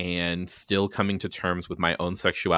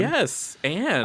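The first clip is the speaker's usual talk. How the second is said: playful callback; 11 semitones higher than usual. Real, not acted.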